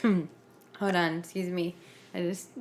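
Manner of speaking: talking through choking on spit; clearing a choke mid-sentence. Real, not acted. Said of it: "I'm choking on my spit".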